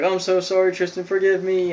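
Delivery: mildly panicked, acted-out apology; pleading. Joey begging his zombified friend to spare him, mock pleading.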